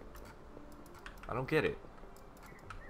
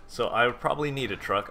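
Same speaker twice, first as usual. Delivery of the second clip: talking through a burp; words pushed out around a burp; 3 semitones higher, 3 dB louder than usual. Real, not acted. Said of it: "I'm burping like crazy".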